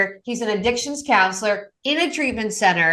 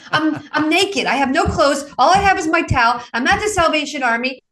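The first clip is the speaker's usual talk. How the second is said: retold crying; 5 semitones higher than usual. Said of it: "Now, this time he's crying".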